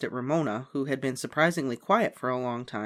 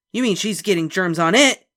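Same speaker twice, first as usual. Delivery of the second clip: alarmed; 6 semitones higher, 9 dB louder than usual. A narrator's reading. Boy alarmed.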